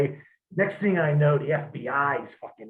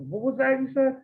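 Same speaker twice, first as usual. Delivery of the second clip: challenging; 10 semitones higher than usual. Retold or imitated. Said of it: "looked at him and said".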